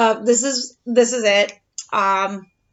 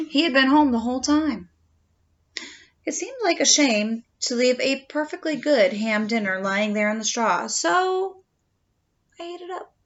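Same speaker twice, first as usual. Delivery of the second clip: lightly voiced wolf narrator, chatty; a hint of a sly wolf telling his side; storytelling wolf; 3 dB louder than usual. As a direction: tell it as the wolf, confiding. Reads the wolf's story aloud.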